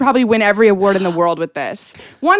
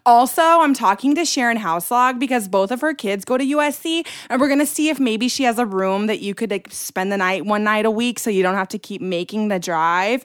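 mom's voicemail. Retold or imitated. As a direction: act out mom's measured suggestions. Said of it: "Anyways, I'll repeat it".

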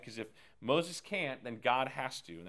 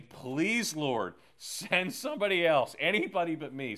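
begging; 3 semitones higher, 5 dB louder than usual. Retold or imitated. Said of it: "Moses is now begging".

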